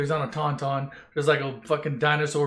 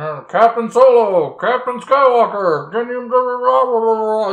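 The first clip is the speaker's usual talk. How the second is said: 1 radio voice; 5 semitones higher, 7 dB louder than usual. Acted. Pilots radio the stranded heroes.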